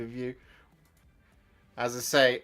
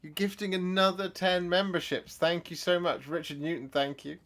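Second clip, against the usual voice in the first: thrilled thanks; 8 semitones higher than usual. Real, not acted.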